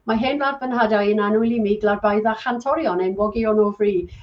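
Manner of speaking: Welsh anthem recited in Welsh; spoken Welsh. Shown as a demonstration. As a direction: recite it as a Welsh speaker would. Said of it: "Can you speak Welsh?".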